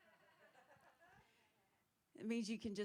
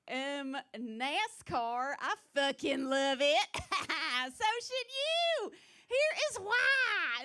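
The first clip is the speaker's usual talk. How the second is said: much higher, louder, dragged-out redneck twang; hick Southern accent; 6 semitones higher, 9 dB louder, much slower than usual. Retold or imitated. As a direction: drag every word like a NASCAR fan. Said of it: "All anybody hears when I talk is like".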